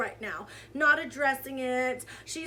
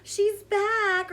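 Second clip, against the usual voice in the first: high, louder mock welcome; mock brand cheer; 7 semitones higher, 6 dB louder than usual. Imitating cosmetics brand's comment, mock fawning cheer. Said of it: "was in her comments like".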